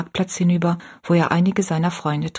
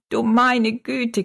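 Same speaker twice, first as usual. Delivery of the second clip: drawn-out exclamation; 5 semitones higher, much slower than usual. A narrator's reading. Old woman exclaims cheerfully.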